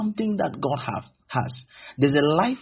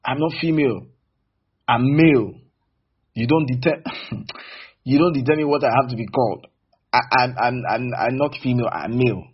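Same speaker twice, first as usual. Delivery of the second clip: loud, defiant objection; insist, shouting you're male; a mock angry shout of denial; indignant insistence; 4 dB louder than usual. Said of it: "then it means you are female".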